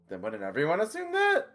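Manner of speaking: nervous question with a half-cracked voice; voice semi-cracking. Acted. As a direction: pitch jumps up and half cracks on that. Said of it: "Roy's voice sort of semi-cracks".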